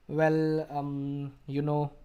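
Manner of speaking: halting string of fillers; filler words. Shown as a demonstration. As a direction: stall for time on "um". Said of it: "simply use a filler".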